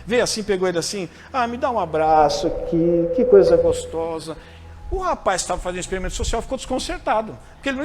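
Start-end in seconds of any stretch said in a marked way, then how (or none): 0.0-4.4 delighted gush. Retold or imitated. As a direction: gush over the sweet surprise like a moved stranger. Woman delighted by love confession.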